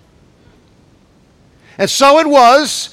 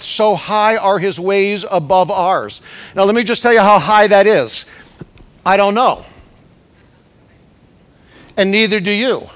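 ordinary talk

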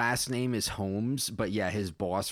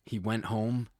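measured read-aloud storytelling; story narration; faster than usual. A narrator's reading. Writer reading own space story to listeners, measured narration. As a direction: read it out plainly as prose.

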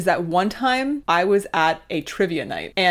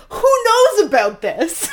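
high incredulous; 13 semitones higher, 5 dB louder, slower than usual. Retold or imitated. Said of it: "I was like".

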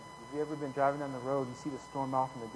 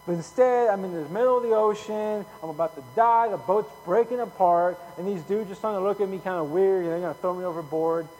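loud, high imitation of a man in trouble; hammed-up dismay, voice raised; mock exasperation; 4 semitones higher, 8 dB louder than usual. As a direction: pile up the complaints as Jonah. Voices Jonah's panicked complaint at sea.

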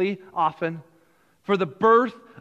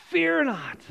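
rising repetition; 7 semitones higher than usual. Shown as a demonstration.

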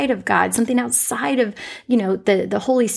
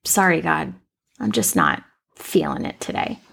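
sad apology; 6 semitones lower than usual. Retold or imitated. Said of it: "this sadness of".

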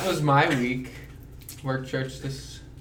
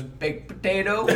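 higher, slower, tentative mock blurt; retold fluster; 7 semitones higher, 3 dB quieter than usual. Friend put on the spot at the counter, mock flustered. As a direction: imitate a flustered order that ends rising. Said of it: "he got a little flustered".

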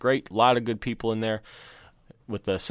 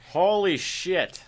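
surprised; 6 semitones higher, much slower than usual. Real, not acted. Reacting to thirteen episodes.

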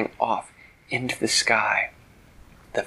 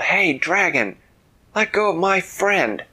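higher-pitched challenging yell; acted yell; 8 semitones higher, 4 dB louder than usual. Girl confronts the dragon holding her friend, yelling. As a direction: call out boldly to a far-off foe. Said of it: "she yelled".

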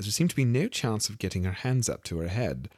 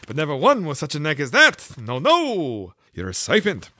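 fussy pigeon; 8 semitones higher, 7 dB louder than usual. A narrator's reading. The pigeon complains to Alice about serpents, high and fussy.

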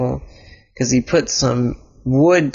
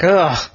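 frustrated groan; 3 semitones higher than usual. Acted. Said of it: "Elliot was getting frustrated".

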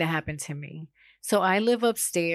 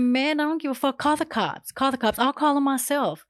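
high-pitched, indignant retort; acted defiance; 7 semitones higher than usual. Woman daring neighbor to call police, acted defiance. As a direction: act out daring him, pitch way up. Retold defiant answer to jail threat.

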